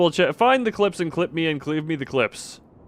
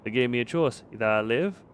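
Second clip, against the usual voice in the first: put-on improvised Russian accent, trailing softer; 3 semitones lower, 7 dB quieter than usual. Streamer reading out a villager's secret note, put-on Russian accent. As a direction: read it gravely in a dubious Russian accent. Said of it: "this is the accent for Russians".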